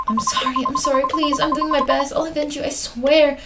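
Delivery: urgent, tearful apology; acted frantic remorse; desperate pleading. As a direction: swear it as you beg. Begging the dead for forgiveness.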